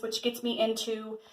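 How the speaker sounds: breathless, catching air; winded mid-sentence; out of breath. Real, not acted. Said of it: "whew, I'm out of breath".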